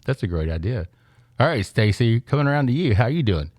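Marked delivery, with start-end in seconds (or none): 1.4-3.5 muffled behind a hand; talking through a hand; hand over mouth. Real, not acted. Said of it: "Move your hand away from your mouth".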